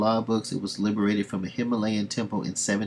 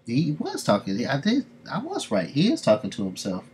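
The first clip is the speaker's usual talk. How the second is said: much higher, pleased with himself; excited gloat; 5 semitones higher than usual. Real, not acted. Reacting to the character talking to himself, excited gloat. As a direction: squeak out being right. Streamer gloating at game twist.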